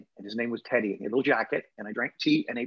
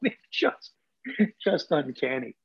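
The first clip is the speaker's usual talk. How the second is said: amused disbelief; 3 semitones higher, slower than usual. Real, not acted. Guest recalling the raven painting to the host, laughing in disbelief. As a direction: let a real laugh take over the phrase.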